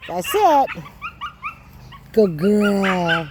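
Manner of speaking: ordinary talk, nothing marked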